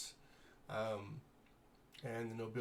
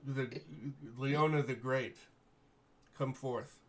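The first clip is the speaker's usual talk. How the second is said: lightly voiced noble lord, grateful and formal; gracious baron; 4 dB louder than usual. Baron thanking the heroes for rescuing his daughter, lightly voiced noble. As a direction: thank them with stately warmth.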